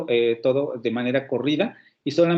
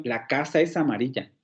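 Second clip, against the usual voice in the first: "La casa es amarilla" with a falling tune; as a statement; 3 semitones lower than usual. Shown as a demonstration. Teacher shows a plain falling statement. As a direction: state it calmly, falling at the end. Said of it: "como una afirmación".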